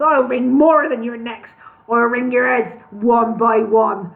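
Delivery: slow menacing threat. Acted. Al threatening the dwarfs.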